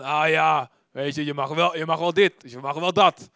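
tempting persuasion. Retold or imitated. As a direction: sweet-talk them into giving in. Tempting voice in story. (verleidelijk overtuigend, luider)

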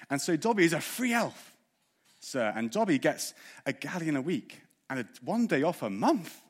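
excited house elf telling his friends. Acted. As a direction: pitch it up like an eager little elf. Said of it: "I'm gonna read you an extract".

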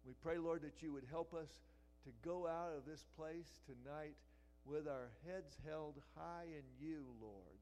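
steady, earnest prayer voice; closing prayer. Acted. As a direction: lead the congregation in prayer.

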